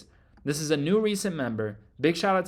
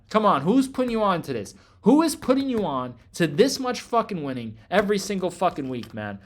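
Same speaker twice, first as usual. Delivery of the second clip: louder, hyped challenge to viewers; loud bragging; 3 semitones higher, 4 dB louder than usual. Real, not acted. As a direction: push it out loud, daring them to disagree. Bragging to viewers about the wins.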